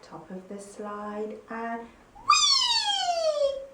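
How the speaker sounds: high, slow rising whee down the slide; high thrilled whee. Shown as a demonstration. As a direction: sail down the slide with glee. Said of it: "Our next sound is".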